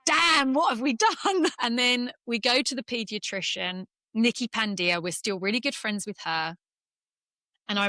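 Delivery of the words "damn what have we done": higher, louder laughing groan of dismay; half-laughing, pretend horror at the new baby; laughing what-have-we-done; laughing mock dismay.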